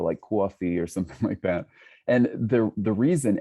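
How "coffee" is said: modern New York accent on "coffee". Shown as a demonstration. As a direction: lightly imitate a New Yorker saying "coffee". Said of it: "kind of vocalize one today".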